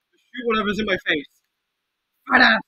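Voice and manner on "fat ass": loud, high jeer; shouted insult. Pretend. Player insulting a game enemy, shouting. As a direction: yell it at the enemy.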